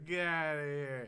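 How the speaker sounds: high, loud get outta here; playful dismissal. Real, not acted. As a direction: shoo him off laughing. Teasing over bad accent.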